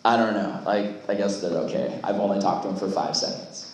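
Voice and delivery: put-on a teenager who can't be bothered; boy shrugging off a camp crush to his friends, low and unsure; lightly voiced unsure guy. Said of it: "you were like".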